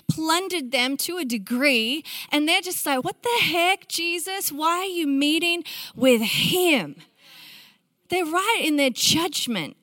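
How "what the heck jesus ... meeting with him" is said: mildly indignant, higher-pitched challenge; indignant crowd. Acted. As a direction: voice a baffled crowd's objection. Voices the indignant crowd questioning Jesus.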